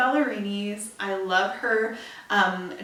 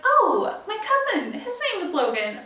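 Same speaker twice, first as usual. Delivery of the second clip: mimicking people; 9 semitones higher, 3 dB louder than usual. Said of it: "Everyone's like".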